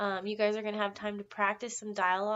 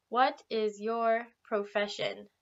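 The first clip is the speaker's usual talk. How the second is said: slow model question; slower than usual. Shown as a demonstration. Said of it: "The next question we have is".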